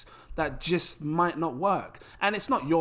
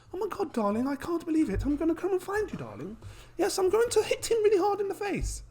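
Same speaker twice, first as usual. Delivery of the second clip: high, hammed-up posh voice, outraged darling; 14 semitones higher than usual. Posh investor swears revenge on the developer, hammed-up high posh voice. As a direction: camp it up like a posh toff threatening violence. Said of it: "if you're posh".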